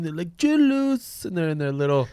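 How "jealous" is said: put-on high, loud German accent on Jealous. Imitating a comedian in a German accent. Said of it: "the little German accent".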